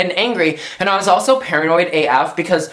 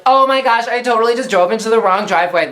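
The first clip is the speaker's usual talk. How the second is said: retold giddy excitement; 5 semitones higher than usual. Texting all her friends about the wrong driveway, giddy and higher. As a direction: replay the giddy high disbelief as you tell it.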